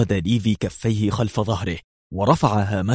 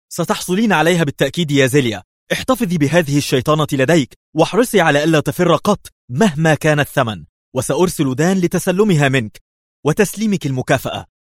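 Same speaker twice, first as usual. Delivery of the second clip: much higher, louder, fast and delighted; gleeful; 7 semitones higher, 4 dB louder than usual. A narrator's reading. The ambassador promises his agent her reward, gleeful. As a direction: crow with joy. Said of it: "صاح في جذل".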